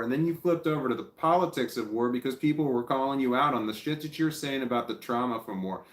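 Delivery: real irritation boiling up as he argues; angry rant. Real, not acted. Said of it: "Now I'm getting pissed off".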